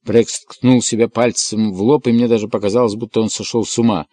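usual speaking voice

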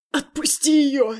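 slow, strained hoarse plea; hoarse rasp. Acted. Beaten father to Andrey, hoarse rasp. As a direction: rasp it out, hurt. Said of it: "прохрипел мой папа".

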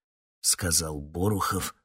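plain reading voice

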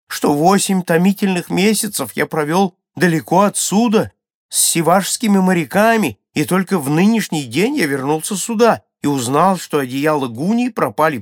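high, loud public announcement; stammering villager's declaration. A narrator's reading. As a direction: declare it loudly to the whole crowd. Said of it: "заикаясь". (громкое взволнованное заявление высоким голосом)

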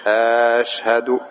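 أشهد with the opening a drawn out long and slow; stretched hamza. Shown as a demonstration. Teacher mimics a caller stretching the hamza of أشهد. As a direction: drag the first vowel of أشهد into a question. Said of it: "بعض الناس يقولون إيش؟".

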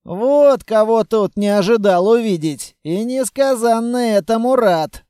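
loud, lifted delighted greeting; joyful recognition. A narrator's reading. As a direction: greet an old acquaintance with glee. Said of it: "радостно осклабился".

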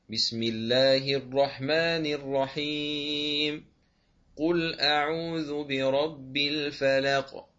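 slow chanted recitation with a full stop after each part; recite, breathing between verse, basmala and sura; Quran recitation, pausing everywhere. Shown as a demonstration. Teacher demonstrates the qat' al-jami' pausing way. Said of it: "تقطع الجميع هكذا".

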